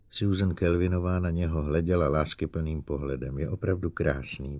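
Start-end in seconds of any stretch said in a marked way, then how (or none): 3.4-4.6 breathed out. Acted.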